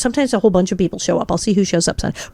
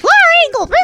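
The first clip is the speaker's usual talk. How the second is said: very high and loud, like a cartoon mouse; squeaky cartoon mouse voice; 6 dB louder than usual. Actress mocking her child self on the show, in a squeaky cartoon mouse voice. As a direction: squeak the name out as if you'd sucked helium. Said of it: "we sound like cartoon mice".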